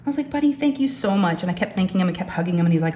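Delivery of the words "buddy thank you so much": high, affectionate thanks; tender thank-you in a lifted voice; touched thanks. Retold or imitated. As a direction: gush gratitude to your son, pitch raised. Acted thanks to the son.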